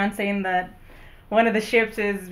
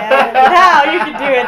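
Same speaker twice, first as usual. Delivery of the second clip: put-on higher, louder little kid voice; creepy child voice; 5 semitones higher, 10 dB louder than usual. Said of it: "creepy child voice".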